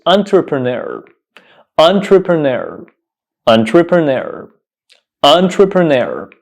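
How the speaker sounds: "entrepreneur" as a careful model; each "entrepreneur" set apart, falling at the end; pronunciation demo. Shown as a demonstration. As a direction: open "entrepreneur" with a clear "on" sound. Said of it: "The correct pronunciation of this word".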